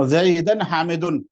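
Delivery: زیدن حامدن read slowly with nunation; careful slow Arabic example; slow Arabic words. Shown as a demonstration. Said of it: "دو زبر آنے سے".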